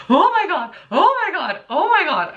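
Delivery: high, frantic oh my Gods; hammed-up terrified squeal; high repeated panicked cries; mock panic. Panicked running through hotel.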